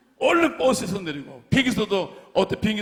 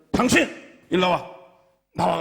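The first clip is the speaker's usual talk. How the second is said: police order; 4 dB louder than usual. Retold or imitated. Policeman orders man off ship.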